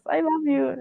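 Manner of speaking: small high-pitched confession; retold fangirl blurt; starstruck blurt. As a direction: squeak it out, overwhelmed. Starstruck, only words managed.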